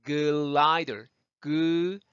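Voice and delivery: glider with a sounded "geu" before the L; voiced G demo. Shown as a demonstration. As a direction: draw out glider as geu-lider. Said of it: "그 소리가 나죠".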